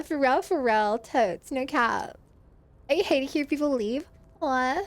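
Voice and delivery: lightly put-on Valley Girl voice. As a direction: talk like a Valley Girl, like, totally. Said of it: "You unlock the Valley Girl voice for an entire minute".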